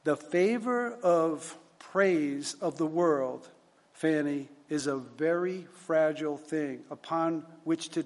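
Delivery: slow, deliberate formal reading; solemn admonition read aloud. Acted. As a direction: weigh out each phrase like a stern lecture. Reads superintendent's admonition aloud.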